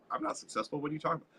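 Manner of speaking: whispered "I'm not successful", then back down; surprised denial. Retold or imitated. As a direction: act a flattered stranger who brushes it off. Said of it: "that person's like".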